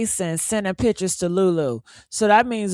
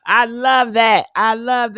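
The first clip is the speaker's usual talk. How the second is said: laughing; 5 dB louder than usual. Real, not acted. Laughing at the comment.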